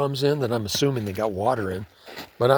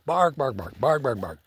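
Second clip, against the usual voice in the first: imitated dog barking; 3 semitones higher than usual. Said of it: "And that dog is barking".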